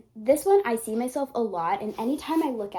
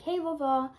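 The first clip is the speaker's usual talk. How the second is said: higher, sing-out greeting; greeting grandma; 6 semitones higher than usual. Retold or imitated. Granddaughter greeting her guardian-angel grandma, higher-pitched hello. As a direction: call to grandma in a raised pitch. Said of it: "I speak to my grandma like that".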